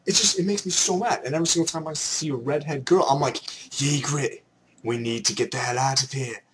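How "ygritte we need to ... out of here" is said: low put-on British voice; badly faked Game of Thrones British accent; terrible British accent. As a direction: play Westeros in bad British. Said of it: "I start doing a terrible British accent".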